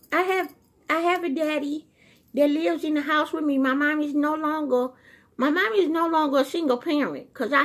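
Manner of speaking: put-on high, childlike voice for the dog speaking; voicing the dog. Woman voicing her dog Gizmo telling viewers about his family, high childlike voice. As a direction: speak as a proud little dog telling its story.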